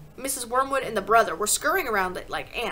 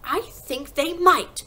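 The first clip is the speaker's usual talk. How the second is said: high, loud, drawn-out; eager child's raised voice; hopeful cry; 6 semitones higher, 7 dB louder, much slower than usual. A narrator's reading. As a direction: cry it slowly with dawning hope. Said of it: "Matilda cried".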